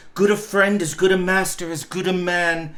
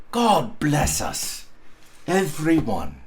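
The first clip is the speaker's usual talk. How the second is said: gentle blessing. Acted. Tiny Tim's blessing, story close.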